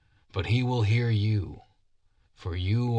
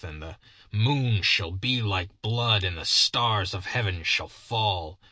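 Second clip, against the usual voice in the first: fervent warning. Acted. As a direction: build into a prophet's fiery warning. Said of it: "he said earnestly".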